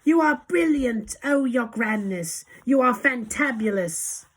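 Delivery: high, loud gushing praise; witches' adoring cry. A narrator's reading. Witches flattering their leader, high excited cries. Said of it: "cried the witches".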